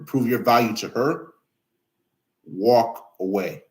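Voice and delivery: slow, spaced-out delivery for clarity; slow repeat. Shown as a demonstration. Streamer repeating advice so viewers clearly understand, said slowly. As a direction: draw out the key words with long pauses. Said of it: "I'm gonna say it slow".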